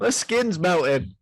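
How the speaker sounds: laughing. Pretend. Mimicking a man burning.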